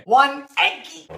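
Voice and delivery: put-on slow, high cutesy baby voice. Adding the egg, a slow high cutesy voice. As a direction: coo it like baby talk.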